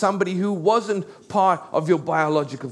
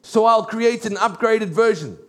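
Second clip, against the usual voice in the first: God catching himself mid-creation; God realising something is missing, a playful alarm; startled God; 3 semitones higher than usual. Acted. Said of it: "it's almost like God says".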